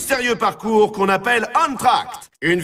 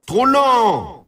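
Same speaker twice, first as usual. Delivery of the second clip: disappointed jeer; 5 semitones higher, 3 dB louder than usual. Acted. Game voice scolds slow run.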